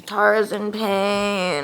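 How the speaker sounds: slow, drawn-out complaint; whiny pained sigh. Real, not acted. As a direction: moan it like a sulky patient. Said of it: "Hi, guys".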